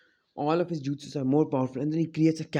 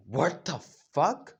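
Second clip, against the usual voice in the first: slow, incredulous question, rising at the end; Madara's stunned disbelief; slower than usual. Acted. Madara watching the arm regrow, slow disbelief. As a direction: stretch it out in mock shock.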